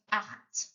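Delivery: Acht with a rasping ch, like clearing the throat; throaty ch. Shown as a demonstration. Teacher showing the throat-clearing ch in Acht. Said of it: "like you're clearing your throat".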